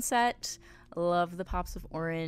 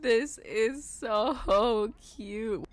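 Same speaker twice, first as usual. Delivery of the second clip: drawn-out gush; 3 semitones higher, 5 dB louder, much slower than usual. Real, not acted. Gushing over a cute room.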